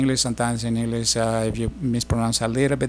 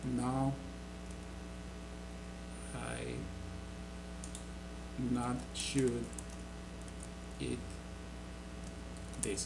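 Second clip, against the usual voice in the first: word by word; 14 dB quieter, much slower than usual. Shown as a demonstration. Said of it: "something like".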